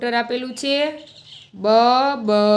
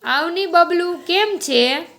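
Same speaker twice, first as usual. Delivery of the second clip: put-on much higher Parsi-accented greeting; Parsi auntie; 6 semitones higher, slower than usual. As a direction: greet the boy sweetly like a Parsi aunt. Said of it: "શિરીનબેન બહાર આવ્યા". (પારસી લહેકામાં ઊંચા અવાજે આવકાર)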